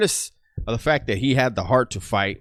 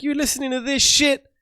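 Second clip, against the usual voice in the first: high, squawky-pitched bird voice; talking bird; 3 dB louder than usual. Acted. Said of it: "That bird was like".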